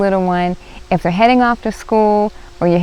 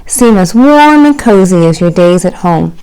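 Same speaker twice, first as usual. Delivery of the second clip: warm mother; 6 dB louder than usual. Acted. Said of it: "she added".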